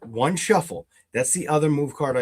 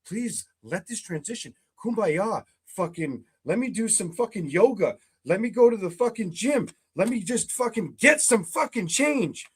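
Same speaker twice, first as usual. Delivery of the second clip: mock weary rant; 6 semitones higher than usual. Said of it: "Seven of Pentacles".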